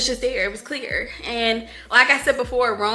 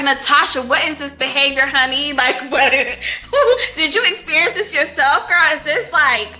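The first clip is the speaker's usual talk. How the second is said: higher, louder questions broken by laughs; laughing disbelief; 3 semitones higher, 4 dB louder than usual. Retold or imitated. Asking the author Natasha where she got this, giddy and laughing. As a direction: tease the author in giddy shock. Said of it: "I was like".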